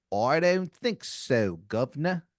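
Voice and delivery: very slow, deliberate British guard warning; a menacing guard drawing out each word; stern royal guard. Acted. Royal guard with a knife warning the host, slow and menacing. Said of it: "he kinda just goes".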